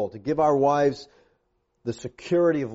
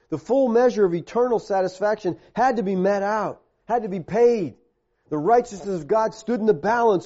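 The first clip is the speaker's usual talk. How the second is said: insistent, raised preaching voice; forceful preaching; 5 semitones higher than usual. Real, not acted. Preacher explains why justice had to be paid, forceful. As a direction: press the argument home phrase by phrase.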